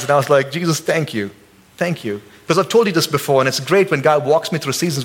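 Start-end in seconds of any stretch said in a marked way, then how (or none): 0.5-2.2 softer, fading thanks; sincere, relieved gratitude; grateful prayer. Retold or imitated. Husband thanking Jesus after hosing down the car. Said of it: "I clapped my hands".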